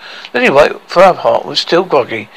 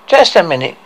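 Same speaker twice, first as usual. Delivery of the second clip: measured, mildly stalling interjection; said slowly; 3 semitones higher than usual. Acted. Dwarf halting Hercules to bargain, slowly. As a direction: hold him off, taking your time. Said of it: "said Tricky slowly".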